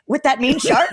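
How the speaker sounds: high, disbelieving protest; incredulous whine. Retold or imitated. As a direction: balk at going back in. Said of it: "I'm like".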